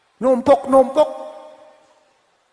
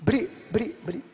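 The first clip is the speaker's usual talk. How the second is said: divine granting; 7 dB quieter, faster than usual. Acted. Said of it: "Apa kata Allah?".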